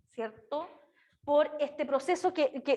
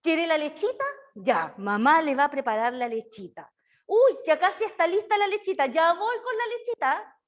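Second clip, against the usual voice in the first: put-on mother's baby talk; 2 semitones higher than usual. Shown as a demonstration. Mother promising milk to her baby, in light baby talk. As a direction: coax the baby about his milk. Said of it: "Entonces le decimos al niño".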